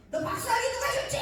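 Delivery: sudden high, loud voice of God; booming divine voice. Retold or imitated. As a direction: thunder it out as the Spirit confronting. Holy Spirit voiced in testimony.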